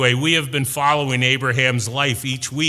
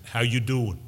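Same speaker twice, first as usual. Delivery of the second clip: light New York accent, imitating a brother; a hint of New York in the voice. Brother greeting him in the lobby, light New York accent. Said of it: "in his New York accent".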